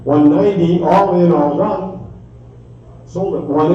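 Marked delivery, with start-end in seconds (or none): 0.0-1.9 auctioneer. Real, not acted. Live auction bid calling.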